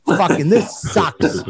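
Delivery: imitating a fed-up driver complaining; griping bus driver. Bus driver griping to the comic about boring tour. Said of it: "I goes".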